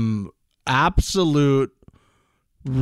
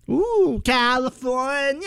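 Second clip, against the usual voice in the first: high, teasing ooh California; playful ooh; 10 semitones higher, slower than usual. Acted. Cohost hams up a guest's home state, high and teasing. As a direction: swoop up on California.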